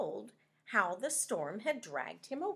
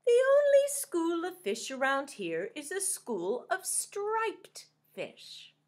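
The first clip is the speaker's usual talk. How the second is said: high, loud wise scallop; 9 semitones higher, 7 dB louder than usual. Acted. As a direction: speak like a wise old scallop. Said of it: "cleared her throat, and finally said".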